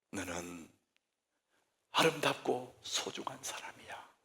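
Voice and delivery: soft, breathy whisper of love; whispered blessing. Shown as a demonstration. Preacher models a parent's blessing in a whisper. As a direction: whisper it like a tender promise. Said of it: "우리 입에".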